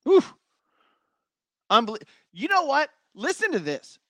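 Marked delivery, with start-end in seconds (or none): 0.0-0.2 short, high puff of breath; sharp exhaled whew. Real, not acted. Host seeing Texas's ranking, exhaled whew. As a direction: blow out a quick whew.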